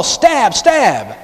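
high playful stab stab; mock yell. Shown as a demonstration. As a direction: bark it like a game. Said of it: "just yell".

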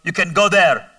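dad calling back through the house, lightly acted; imitated yelling back. Father shouting permission back from his bedroom, imitated yell. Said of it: "my dad yells right back".

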